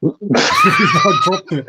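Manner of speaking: very high, drawn-out mock wail. Joking with co-host about something dropped, mock wail. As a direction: squeal it slowly, hammed up. Acting out a figure's dropping excuse.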